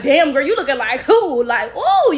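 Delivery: loud, playful hype of your own looks; playfully wowed; admiring hype. Acted.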